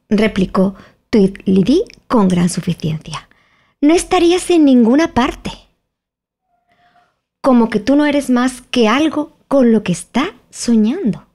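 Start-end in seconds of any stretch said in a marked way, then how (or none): 3.8-11.3 high twin voice with great self-satisfaction; smug twin. Acted. Tweedledee mocking Alice, high and smug. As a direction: talk down to her, pleased with yourself.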